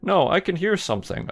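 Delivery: high, lightly voiced mom; suspicious mother. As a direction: pitch up as a wary mom. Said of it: "Okay, we gotta".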